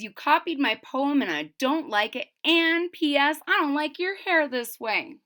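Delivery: a touch of petty schoolgirl huffiness; a hint of a sulky classmate; mildly mad Angela. Classmate Angela scolding Ruby, mildly huffy. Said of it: "Angela's pretty mad".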